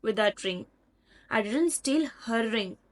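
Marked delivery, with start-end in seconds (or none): 1.3-2.8 "her" set apart and emphasized; stress on HER. Shown as a demonstration. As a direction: lean on "her" before "ring". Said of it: "When you put emphasis on her".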